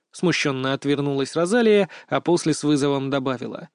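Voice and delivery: ordinary delivery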